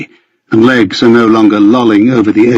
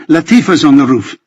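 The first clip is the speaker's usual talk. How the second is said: mildly angry snap, pitched up; snapped; 4 semitones higher than usual. A narrator's reading. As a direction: cut in with an irritated retort. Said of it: "He snapped".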